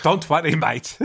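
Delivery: clipped South African "Don't worry, mate"; a quick South African twang on "mate"; South African accent. Retold or imitated. Dentist reassuring a patient, in a South African accent. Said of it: "quite a good impression".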